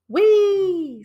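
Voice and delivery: high, loud squeal of joy; a pig whooping down a slide; gleeful squeal. A narrator's reading.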